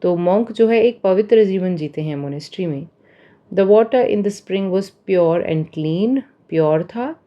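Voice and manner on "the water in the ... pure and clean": slow, careful reading of example sentences. Shown as a demonstration. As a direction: read each example slowly and clearly for learners. (उदाहरण वाक्य धीरे-धीरे पढ़ना)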